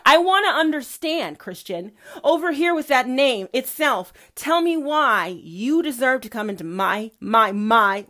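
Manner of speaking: cross-examine as a booming deity; demanding God. Acted.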